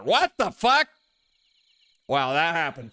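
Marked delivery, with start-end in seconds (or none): 0.0-0.9 high, loud disbelief; shocked outburst. Real, not acted. Player reacting to a character's father reveal, shocked.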